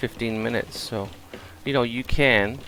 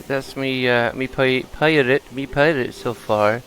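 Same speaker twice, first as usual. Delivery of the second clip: put-on light pirate accent, a bit louder; weird pirate accent; 2 semitones higher, 3 dB louder, slower than usual. Gamer slipping into a pirate accent. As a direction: growl it like a stage pirate. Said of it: "I did a weird ac-, weird accent".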